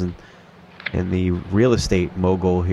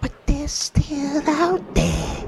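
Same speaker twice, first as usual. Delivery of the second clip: much higher, slow creaky butler; creepy butler voice; much slower than usual. Retold or imitated. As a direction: drag it out like an old butler. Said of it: "Sounds like that guy from Scary Two".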